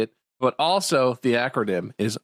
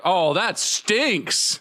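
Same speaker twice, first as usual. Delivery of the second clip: slow drawn-out; 6 semitones higher, much slower than usual. Retold or imitated. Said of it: "they were like".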